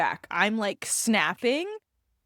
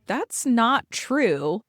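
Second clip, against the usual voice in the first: stern mother; 2 semitones higher, 4 dB louder, much slower than usual. Retold or imitated. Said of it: "a mother on here being like".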